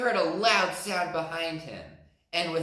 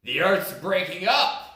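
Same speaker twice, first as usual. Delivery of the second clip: rumbling elephant; 4 semitones higher, 7 dB louder than usual. Acted. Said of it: "rumbled the elephant".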